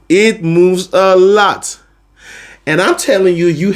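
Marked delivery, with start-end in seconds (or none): 0.1-1.8 drawn out, word by word; slow emphasis. Shown as a demonstration. Teacher stressing how singing moves, slow emphatic delivery. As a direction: spell it out slowly. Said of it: "when it comes to singing, it moves a lot".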